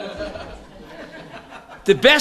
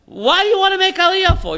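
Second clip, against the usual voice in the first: incredulous Shliach; 3 semitones higher than usual. Retold or imitated. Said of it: "The Shliach told him".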